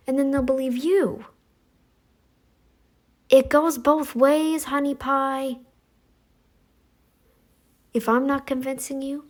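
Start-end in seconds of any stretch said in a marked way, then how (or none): 3.3-5.6 sassy jab. Real, not acted.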